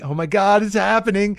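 high, loud panic; mock freak-out as the drug hits; panicked. Young self feeling the trip kick in, high panic. Tripping starts at concert.

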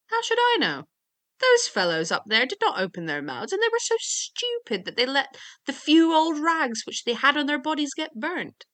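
high, loud, exasperated youth; acted storybook grumbling; indignant complaint. A narrator's reading. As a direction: protest with the pitch swooping up. Youth complains about hanged men.

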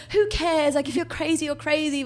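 high, loud dismissive mum; carefree mum. Retold or imitated. Mum brushing off her worry, high and breezy. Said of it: "She's like".

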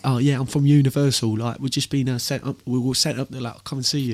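cheery Southern English accent, lightly hammed; Southern English impression. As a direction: play the eager London A&R guy in a Southern English accent. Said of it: "That impression's too good".

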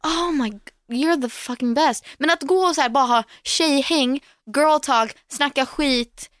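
high, bubbly raving; gushing. Real, not acted. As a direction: rave about your favorite place. Gushing about hair salon.

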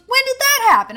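high, loud, astonished question; incredulous. Retold or imitated. Storyteller acting her friend hearing the story, loudly incredulous. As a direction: burst out in mock disbelief.

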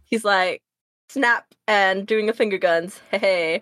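dropping low for the bot's voice; a hint of a cocky bot in a low voice; low voiced character. Friend acting out a comic panel, in a low voice.

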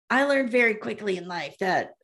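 creaky fried voice; vocal fry imitation. Shown as a demonstration. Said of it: "I'm just gonna do it my regular voice".

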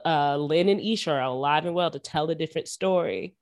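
ordinary talk, nothing marked

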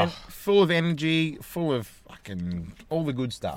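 high, bright salesman pitch; cheery dad voice. Retold or imitated. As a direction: sell the banana to the kids. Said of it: "and I'm like".

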